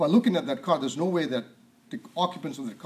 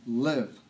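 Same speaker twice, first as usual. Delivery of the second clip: "Live." set apart, slow and falling; stress on live; 3 semitones lower than usual. Shown as a demonstration. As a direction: let the one word "Live." land on its own. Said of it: "The emphasis is live".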